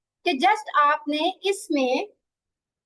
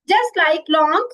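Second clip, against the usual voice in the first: very slow and louder, stretching each word; drawn-out example; 6 dB louder, much slower than usual. Shown as a demonstration. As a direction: hold the example out for the class. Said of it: "teacher stretches example word". (उदाहरण को खींचकर, धीमे और ज़ोर से)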